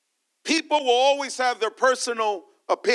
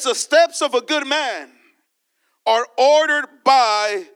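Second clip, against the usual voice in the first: loud proclamation; 4 dB louder than usual. Real, not acted. Preacher proclaims key scripture.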